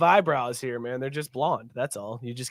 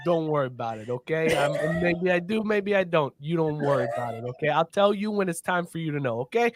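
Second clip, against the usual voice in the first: lightly acted low, hushed mob boss; lightly played cagey coach, voice lowered; evasive mobster coach; 5 semitones lower, 4 dB quieter than usual. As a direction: deflect like a hint of a mafia don. Acts mob-style coach dodging the question.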